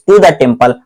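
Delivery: slow dictation including "the" before "temple" as the mistake; wrong version. Shown as a demonstration. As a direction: read "to the temple" slowly as the wrong example. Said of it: "आपने गलत बोल दिया". (गलत वाक्य का नमूना, धीरे-धीरे "the temple" के साथ)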